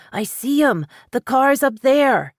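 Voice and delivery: put-on high excited boy's cry, pointing ahead; a boy yelling as he spots the car; child shouting. A narrator's reading. Boy shouting to Paris from the passenger seat, high and excited. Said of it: "Danny shouted".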